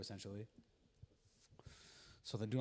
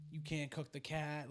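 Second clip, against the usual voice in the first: higher, slow retold plea; mock reasoning, drawn out and high; lightly acted attempt to reason with her; trying to reason; 6 semitones higher, slower than usual. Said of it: "like, reason with her".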